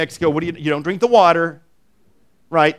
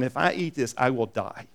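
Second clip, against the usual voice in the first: quiet inner dread; 4 semitones lower, 7 dB quieter than usual. Retold or imitated.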